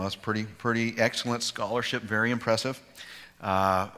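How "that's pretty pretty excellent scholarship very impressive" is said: self-mocking sarcasm. Real, not acted. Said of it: "I know".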